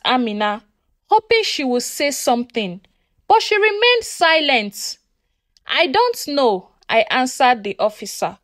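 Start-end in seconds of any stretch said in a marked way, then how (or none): 5.7-6.7 slow, a hint of a crack; understated break in the voice, slowed; mildly choked, hesitant. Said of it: "My voice was cracking".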